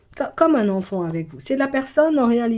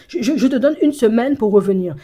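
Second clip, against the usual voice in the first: laughing; 2 semitones higher, 5 dB louder than usual. Real, not acted. Laughing while talking.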